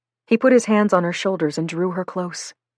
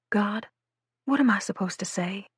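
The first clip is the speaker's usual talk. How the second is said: whisper; 3 semitones higher, 6 dB quieter than usual. Acted. Girl agonizing, voice to herself.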